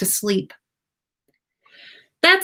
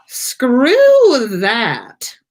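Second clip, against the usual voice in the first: breathy, drowsy muttered brush-off; sleepy mutter; 5 semitones higher, 7 dB louder than usual. A narrator's reading. Draco refusing to let Harry leave, sleepy mutter. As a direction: mumble it half asleep. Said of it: "Draco muttered sleepily".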